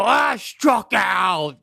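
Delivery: slow hammed-up groan of defeat; slow theatrical sigh of failure; mock disappointment. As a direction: drag it out like a fake letdown. Acted fake disappointment.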